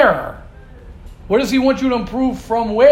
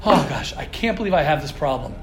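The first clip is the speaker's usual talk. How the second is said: low, fast, self-pitying moan; hammed-up groaning over your own flaws; mock whining; 8 semitones lower, 4 dB quieter, much faster than usual.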